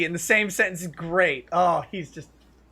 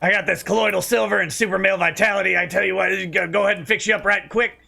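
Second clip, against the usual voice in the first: mildly voiced huckster pushing supplements; hint of an infowars ad; Alex Jones pitch; 2 semitones higher, faster than usual. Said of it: "but it's like".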